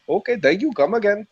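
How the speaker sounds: put-on Indian-accented quote; mock Indian accent. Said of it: "a female from India there".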